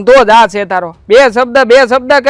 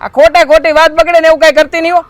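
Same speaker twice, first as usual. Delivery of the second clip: raised, forceful warning; stern scolding; 4 semitones higher, 4 dB louder than usual. Acted. Husband scolding his wife, raised and stern. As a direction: lay down the law to his wife.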